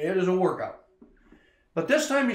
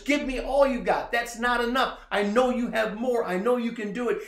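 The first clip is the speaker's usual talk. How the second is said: raised, higher coach shout pushing him on; yelling encouragement; 5 semitones higher than usual. Retold or imitated. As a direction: bark encouragement like a coach on the field. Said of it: "he's yelling encouragement".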